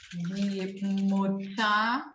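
die Mutter drawn out slowly, ending in a; slow German demo. Shown as a demonstration. Teacher drilling die Mutter slowly for the class. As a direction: stretch die Mutter, final er as a. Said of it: "sempre o A no final".

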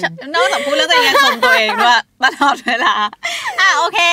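shrieking with laughter at her friend; laughing. Real, not acted. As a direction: crack up while teasing her. Teasing co-host, laughing loudly.

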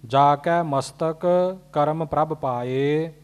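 ਮਸਤਕ rising, then a break before ਕਰਮ; pause after ਮਸਤਕ. Shown as a demonstration. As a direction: split the phrase after ਮਸਤਕ. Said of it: "ਅਗਲਾ ਕੱਕਾ ਨਖੇੜ ਕੇ ਬੋਲਣਾ".

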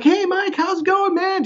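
very high-pitched over-friendly greeting; mock an overly friendly neighbor's hello; super nice neighbor. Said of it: "Just like this super nice guy".

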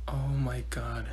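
low, slow, very soft; dismayed mutter. Acted. Student told to explain her answer, low dismayed mutter. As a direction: mutter it slowly under your breath.

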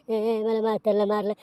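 imitated whiny sobbing lead-in; lightly mocking whimper; mock snivelling. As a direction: mimic a crybaby coming home. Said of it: "तो येतो मुळमुळ रडत घरी".

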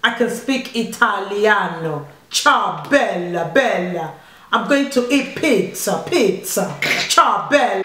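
mock Italian with lingering endings; Italian accent. Mum taking her turn after her son, put-on Italian. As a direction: lay on a playful Italian accent.

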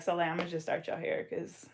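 unvoiced whispered aside. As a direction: whisper it behind her back. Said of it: "I'm gonna be like".

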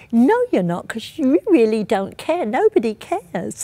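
a father half-shouting his grief at a policeman; retold angry outburst. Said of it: "started to get really angry with this and shouting".

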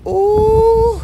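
high, loud, held "ooh"; spirit-moved "ooh". Real, not acted. Preacher moved by the Holy Ghost, high whooped "ooh".

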